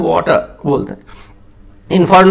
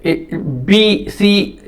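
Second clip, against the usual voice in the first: ए, बी, सी said one by one, very slowly and separately; slow letter demo; 4 semitones higher, much slower than usual. Shown as a demonstration. Teacher demonstrating letters to students, very slow. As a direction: sound out ए बी सी slowly for the class. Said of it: "experiment करने के लिए बोलता हूँ".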